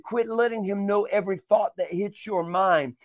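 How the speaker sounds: preacher's exhortation with punched key words; insistent preaching. Acted. Preacher telling listeners to stop partnering with the enemy, insistent. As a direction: urge listeners on with firm emphasis.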